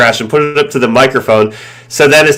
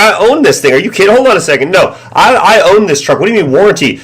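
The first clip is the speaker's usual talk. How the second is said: indignant retort; 2 semitones higher than usual. Retold or imitated. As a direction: act out arguing with the scammer. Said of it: "I'm like".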